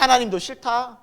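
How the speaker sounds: performed angry refusal; blurted defiance. Acted. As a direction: act out rash words flung at God. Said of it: "그 중요한 말들을 막 내뱉는".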